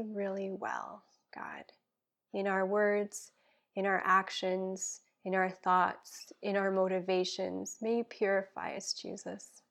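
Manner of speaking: earnest spoken prayer, dropping to a hush at times; heartfelt prayer. Acted. Guest praying for listeners, earnest prayer voice. Prays aloud on podcast.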